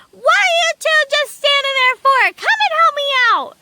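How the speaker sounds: high-pitched yelled demand for help; yelling little man. A narrator's reading. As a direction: yell impatiently as the stuck little man. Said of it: "he was yelling and screaming".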